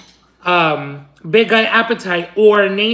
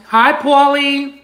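high, slow sing-out hello; greeting; 4 semitones higher, slower than usual. Real, not acted. Coaxing Paulie to say hello, high drawn-out greeting. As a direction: draw the greeting out, pitched up. Calling hello to a pet or person.

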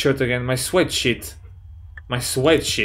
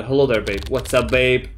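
mock suave hello; 2 semitones lower than usual. Retries the greeting in another voice.

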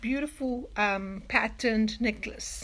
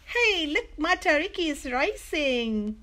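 storybook call, raised at the start; 4 semitones higher than usual. Acted. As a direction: call the others to look, high on "Hey". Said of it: "called Nanny".

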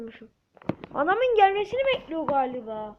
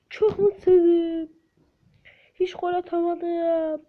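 slow, louder fake sobbing; mock crying; 3 semitones higher, 5 dB louder, slower than usual. Gamer fake crying to viewers after failing to score, slow and louder. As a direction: ham up the misery.

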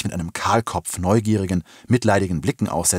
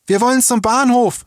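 high, loud yell from the crowd; shouting; 6 dB louder than usual. A narrator's reading. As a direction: shout a demand over the crowd. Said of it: "schrie jemand".

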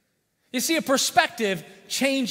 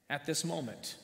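softly repeated; 5 semitones lower, 13 dB quieter than usual. Real, not acted. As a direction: drop to a much softer, hushed repeat.

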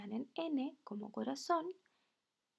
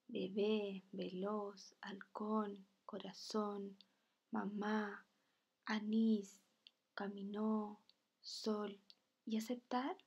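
measured word list, final syllable stressed as in be-BÉ, ve-LOZ, hal-CÓN; level teacher's list, "caminó" as cami-NÓ, rising at "aceptar"; stress on last syllables; 2 semitones lower, much slower than usual. Shown as a demonstration. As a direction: recite "Bebé, veloz, halcón" evenly, leaning on each last syllable. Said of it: "se marca fuerte la voz en la última sílaba".

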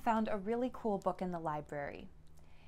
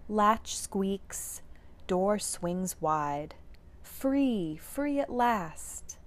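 storybook reading; slower than usual. A narrator's reading. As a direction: read each haiku to the kids with little pauses. Reads the haiku book aloud.

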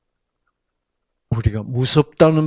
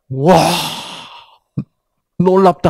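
Jeolla exclamation; 4 semitones higher, 6 dB louder than usual. Retold or imitated. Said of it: "전라도 말로".

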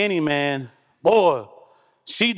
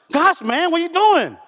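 higher, exasperated mock snap; irritated tone; 11 semitones higher, 3 dB louder than usual. Husband snapping back at his nagging wife, higher and exasperated. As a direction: play your own annoyed comeback to your wife. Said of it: "But my tone was like".

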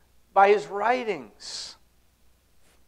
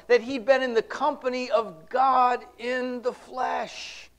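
preaching shout; 5 semitones higher than usual. Real, not acted. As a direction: drag the words out with full fervor. Preacher exclaims incarnation.

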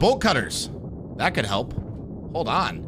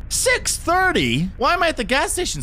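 shocked question; 13 semitones higher, 4 dB louder than usual. Real, not acted. Startled by the late clock.

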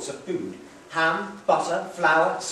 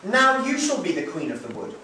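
mock courtly; 4 semitones higher, 5 dB louder than usual. Hansel playfully crowns Gretel.

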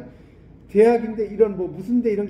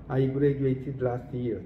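very slow, clear English sentence for repeating; slow model reading; 4 semitones lower, much slower than usual. Shown as a demonstration. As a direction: spell it out slowly for the class. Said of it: "model reading". (아주 천천히 읽어주는 예문)

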